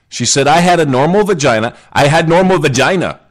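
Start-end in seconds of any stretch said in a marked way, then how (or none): 0.5-1.8 mock Russian accent, a bit higher; a fake Russian accent, half-hearted. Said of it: "I don't know if that's a Russian accent". 1.9-3.2 mock Russian accent, dropping the article; a rough Russian accent, playfully. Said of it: "I don't know if that's a Russian accent".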